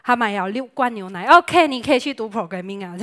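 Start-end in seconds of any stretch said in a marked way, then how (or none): 1.3-3.0 laughing. Real, not acted. Laughing after punchline.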